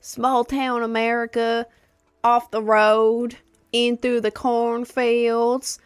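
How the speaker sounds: drawn out slowly, spooky storyteller; slow and dramatic. Pretend. Telling viewers about her remote home, slow and ominous. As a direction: stretch each phrase like a campfire tale.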